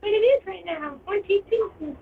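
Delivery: cartoon character voice. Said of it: "you're speaking like a cartoon character".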